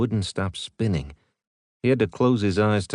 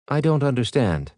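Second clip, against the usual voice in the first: lightly voiced puzzled AI; a hint of literal-minded ship AI; ship's AI confused by Payne's joke, lightly voiced; Lev replying; 5 semitones higher than usual. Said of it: "Lev replied".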